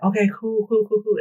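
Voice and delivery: mock breezy agreement. Mocking the man agreeing.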